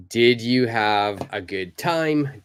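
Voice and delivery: slow "Did you have a good time" with each word clear; careful full form. Shown as a demonstration. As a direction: read each word apart. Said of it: "I'm going to be joining".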